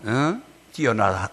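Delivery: ordinary delivery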